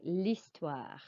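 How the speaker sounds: l'histoire said with no H, lees-twahr; teacher modelling silent H. Shown as a demonstration. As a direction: drop the H in l'histoire. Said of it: "You do not pronounce the H".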